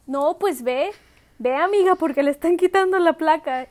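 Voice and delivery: a neighbor urging her friend to hurry; urgent urging. Retold or imitated. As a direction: push her to run.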